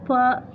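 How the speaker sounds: "با" said as a separate syllable; syllable broken out. Shown as a demonstration. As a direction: say "با" on its own as one syllable. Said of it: "هذا مقطع".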